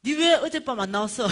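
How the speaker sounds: high, very loud reproach; imitated loud complaint. Homeless woman scolding preacher for skipping last night, loudly. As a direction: accuse her in a comic yell. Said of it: "이러니까".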